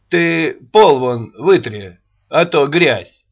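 slow, loud taunting; mocking. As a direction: taunt her with a sneer. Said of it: "Насмешливо заметил ей Рогачёв".

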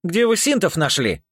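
can't believe it; astonished. Acted. Rika the original, astonished the clones found synths. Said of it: "поразился Рика Оригинал".

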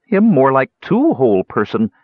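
a hint of a small creature talking through a mouthful; muffled mumble. A narrator's reading. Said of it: "mumbled Bupu in a muffled voice".

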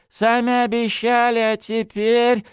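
high, dragging whine trailing off; whining. Acted. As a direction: beg for pity. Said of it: "заныл князёк, давя на жалость".

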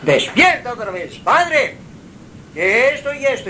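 a hint of the boy waking his father again; voicing young Samuel. A narrator's reading. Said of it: "Samuel vuelve al padre". (Samuel insistiendo, más agudo)

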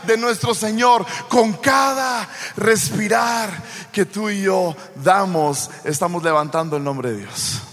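loud, ringing sermon build; preaching at full force. Acted. Preacher rousing the congregation, loud full-force preaching. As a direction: proclaim it to the whole congregation.

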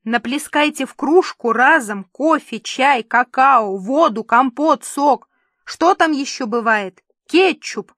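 loud, exasperated listing; yelling. A narrator's reading. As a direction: rattle off orders, rising to a high outburst. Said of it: "заорал с потолка режиссёр". (раздражённо, громко)

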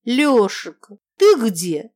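put-on loud drunken call across the room. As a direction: shout for Lyosha from afar. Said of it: "она как раз кричала".

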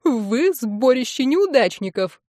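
slow squeaky teasing imitation of a girl; mock her in a squeaky voice; squeaky mocking mimicry. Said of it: "передразнивает Лилит писклявым голосом".

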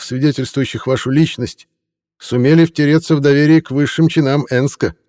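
high, fawning tipsy reporter voice; a drunk hack laying on the flattery, pitched high. Acted. Reporter needles Kopytman.

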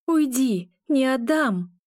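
fierce, high-pitched refusal; emphatic defiance with only a hint of growl. A narrator's reading. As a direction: drive the phantom off, fists clenched. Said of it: "рычала я".

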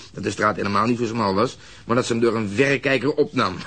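ordinary delivery

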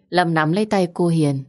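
ordinary delivery

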